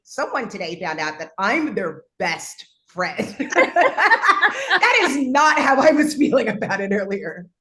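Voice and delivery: loud, real laughter through the words; high-pitched, tickled laughing delivery. Real, not acted. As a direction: burst out laughing and keep talking. Laughs at being someone's best friend.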